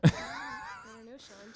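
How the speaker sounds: creaky, crackly drawl; vocal fry. Pretend. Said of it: "you don't want me to talk like this".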